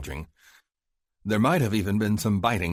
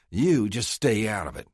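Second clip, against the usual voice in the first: mild snap; 3 semitones higher, 3 dB louder than usual. Acted. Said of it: "he snapped".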